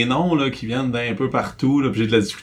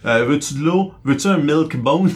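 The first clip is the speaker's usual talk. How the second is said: coaxing the dog. Retold or imitated. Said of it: "toutes les stratégies ont été essayées".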